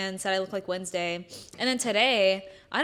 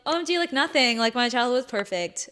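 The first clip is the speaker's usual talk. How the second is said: mock breezy answer; 2 semitones higher than usual. Mock carefree answer to question.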